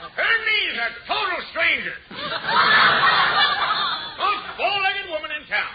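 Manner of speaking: drawn-out laughing punchline; milk the gag, slow and laughing; vaudeville comic. Acted.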